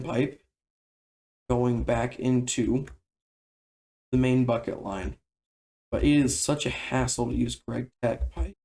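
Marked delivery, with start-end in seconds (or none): 5.9-8.5 voice crack. Real, not acted. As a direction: voice cracking mid-sentence. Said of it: "Sorry about the voice crack".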